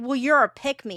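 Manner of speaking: mock screaming, acted scream. Mocking people online who argue by only shouting: imitating someone screaming. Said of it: "instead of just screaming".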